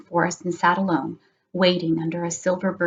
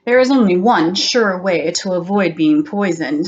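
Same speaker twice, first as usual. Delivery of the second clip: lightly voiced sly adviser; a hint of a scheming doctor; cunning doctor; 4 dB louder than usual. Doctor advising the fearful king, lightly sly. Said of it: "said Doctor Slythe".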